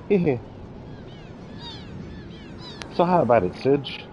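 cheeky Australian girl, lightly voiced; a hint of a brash Aussie tomboy; Australian accent. Kid introducing herself to Serge, light Australian accent.

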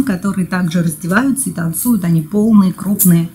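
between sips of a drink; just after a sip. Real, not acted. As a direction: cup held at the lips. Seen 1: Sipped at -1.0, talks holding cup at chin, sips again at 0.9.

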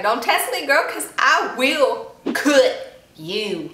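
slow, drawn-out sassy threat with a hillbilly twang; mock-menacing, stretch every word; Angela Johnson with hillbilly. Reaction vlogger voicing a jealous idol, sassy hillbilly twang. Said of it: "I mixed in Angela Johnson with a little bit of hillbilly".

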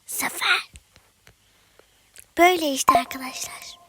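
whispery hoarse late-night voice; hushed hoarse voice. Real, not acted. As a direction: keep it a raspy whisper so no one wakes. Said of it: "Bu yüzden kısık sesle konuşuyorum".

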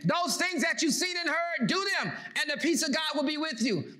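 rising preacher's declaration; preaching. Acted. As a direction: proclaim it to the congregation. Preacher quoting scripture.

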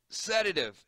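doctor calling to the nurse; urgent call. Acted. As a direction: bark for the drug in a hurry. Doctor calls for sedative.

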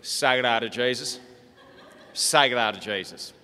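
broad Australian rancher voice; broad Australian accent. Retold or imitated. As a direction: chant it in a broad outback accent. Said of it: "Listen to it".

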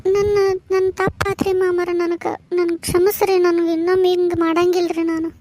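crying as she begs forgiveness; tearful apology. Acted. Daughter-in-law falls at father-in-law's feet, tearfully sorry. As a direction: plead through tears. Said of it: "ಎದಕ್ಕೆ ಅಳಕತ್ತಿ ವಾ ತಂಗಿ".

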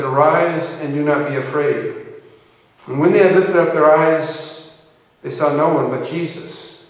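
measured, emphatic Bible reading; scripture reading. Acted. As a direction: read the passage out to a congregation. Reads scripture aloud.

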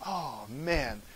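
low, very soft groan of sympathy; dismayed aside. Acted. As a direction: drop way down, slowly lamenting. Reacting to an unfortunate name.

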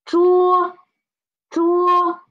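桌 said soft, with no puff of air on the hand; soft unaspirated zh. Shown as a demonstration. Teacher models a soft unaspirated 桌 for the class. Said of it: "One is soft and one is strong".

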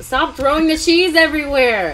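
high laughing stop; laughing at her partner throwing cheese; laughing scold. Real, not acted.

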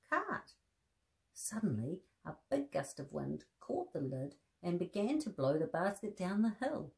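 gentle storybook reading with voiced bears; reading to children. A narrator's reading. Presenter reading a teddy bear story to children, gentle storybook voice. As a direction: read the story aloud to little listeners.

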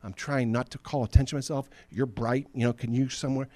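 whispery start, anxious and hushed; a hiding coward begging the angel to move; hushed nervous Gideon. Retold or imitated. Gideon hiding in the pit, begging the angel to move, hushed and nervous. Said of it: "Gideon's kinda like".

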